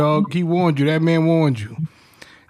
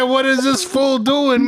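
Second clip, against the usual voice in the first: higher voice breaking into laughter; amused disbelief; 5 semitones higher than usual. Retold or imitated. Friend recalling his reaction, laughing disbelief. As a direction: retell it on the edge of cracking up.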